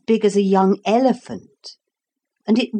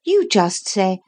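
put-on little girl voice. Lucy's voice.

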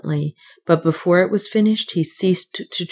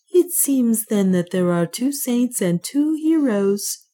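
gently; 6 semitones higher than usual. Acted. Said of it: "replied the priest gently".

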